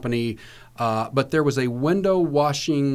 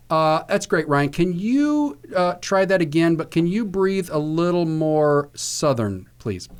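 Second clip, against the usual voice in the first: bright, higher, upbeat director voice; quoting the director; 4 semitones higher, slower than usual. Retold or imitated. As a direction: sell it like a polite director over the talkback. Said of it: "and he said".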